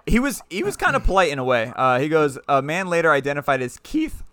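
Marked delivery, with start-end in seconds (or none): 2.5-4.2 stifled giggles. Real, not acted. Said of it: "I'm trying not to laugh here".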